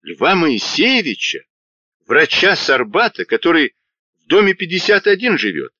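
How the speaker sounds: anxious disbelief; horrified questions. A narrator's reading. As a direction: Bunin asking in alarm who was killed. Bunin horrified asking victim.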